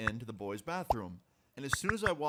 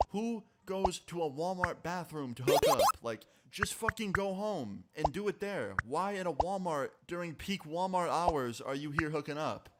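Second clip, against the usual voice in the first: raised pitch, exasperated retold rant; indignant scolding; 5 semitones higher than usual. Storyteller scolds couple for hooking up at Walmart, indignant retelling. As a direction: tell them off with emphatic, mock exasperation.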